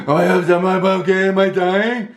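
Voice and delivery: high, gasping mock panic; acted out of breath. Exhausted runner asks the nurse if he's okay, acted breathlessness. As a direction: force the words out through heaving breaths. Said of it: "breathing super heavy".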